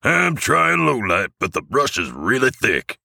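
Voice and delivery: squeaky little scanner operator; elf crewman. A narrator's reading. Elf keeps reporting to Santa.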